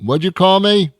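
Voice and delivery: furious driver shouting at a drive-through speaker he can't understand; angry shouting. Acted. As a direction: yell back at the garbled speaker.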